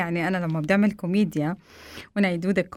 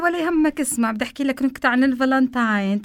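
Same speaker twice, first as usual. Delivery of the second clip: higher, fast eager promise; eager wife; 4 semitones higher, faster than usual. Retold or imitated. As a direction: rush into the joke happily. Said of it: "قلت له".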